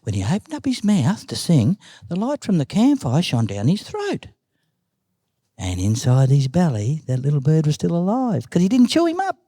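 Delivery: animated oral storytelling with swooping pitch; story narration. A narrator's reading. Uncle tells Nan's snake story, animated storytelling. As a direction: tell it like a yarn, acting out each move.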